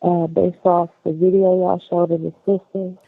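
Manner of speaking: muffled, like hand over mouth. Real, not acted. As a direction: speak through a covered mouth. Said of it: "it's coming in real muffled".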